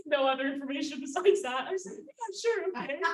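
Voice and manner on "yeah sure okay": eager yes. Retold or imitated. Agreeing eagerly to the date.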